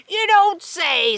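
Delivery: slow, drawn-out mock surprise; sly sarcasm. A narrator's reading. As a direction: play innocent with a knowing edge. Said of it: "said Miss Swamp".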